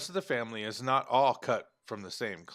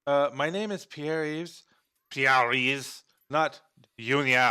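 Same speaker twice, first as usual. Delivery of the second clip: fake French accent; 2 semitones higher, 4 dB louder, slower than usual. Boy corrects his uncle about his name, fake French accent. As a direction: correct them in a badly faked French accent. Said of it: "that's probably a terrible fake accent".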